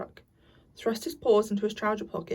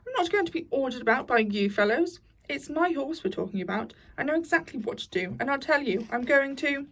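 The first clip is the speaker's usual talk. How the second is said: excited; 4 semitones higher than usual. Acted. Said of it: "getting excited".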